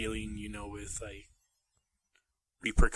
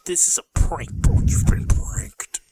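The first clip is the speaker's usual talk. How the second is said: prank reveal laughing; 7 semitones higher, 8 dB louder than usual. Pretend.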